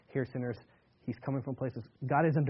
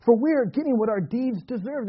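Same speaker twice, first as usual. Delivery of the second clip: rebuking criminal; 8 semitones higher, 8 dB louder than usual. Acted. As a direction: scold him from the cross, pressing each word. Other criminal rebukes the first.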